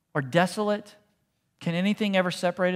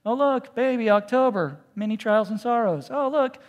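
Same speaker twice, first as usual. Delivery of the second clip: higher, louder, sarcastic bright read; mock cheery calendar; 4 semitones higher, 5 dB louder than usual. Pastor mocking promise calendars, sarcastic cheer. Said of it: "doesn't make it to the Bible promise calendars".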